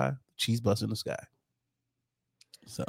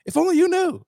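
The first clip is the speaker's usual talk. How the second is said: mock weary; 4 dB louder than usual. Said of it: "And I was like".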